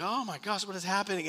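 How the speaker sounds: high-pitched retold dismay; retold alarm. Preacher recalls watching the chaos, high-pitched alarm. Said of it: "he's just freaking out".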